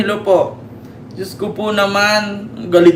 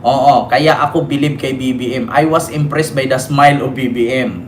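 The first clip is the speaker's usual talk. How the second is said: reading comments aloud; 7 semitones lower than usual. Acted.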